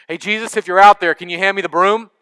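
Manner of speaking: put-on a nervous boy hollering out the door; scared boy calling out to Jesus for the broom, fast. Boy calls out into dark.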